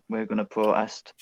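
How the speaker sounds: a hint of Geordie on "protest"; accidental Geordie. Real, not acted. Fan declaring they will protest, accidental Geordie lilt. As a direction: slip into a slight Geordie accent. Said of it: "I don't know why I went Geordie then".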